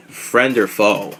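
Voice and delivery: slow, drawn-out trailer line; dramatic tagline. Shown as a demonstration. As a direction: say it like a movie tagline. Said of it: "this is the new tagline".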